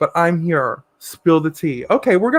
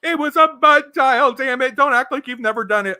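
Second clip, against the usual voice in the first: mocking quote; 5 semitones higher than usual. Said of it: "One says".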